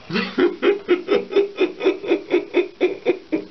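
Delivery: high-pitched rapid cackle; helpless laughing. Real, not acted. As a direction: burst into a long, high giggle. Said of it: "I don't wanna laugh".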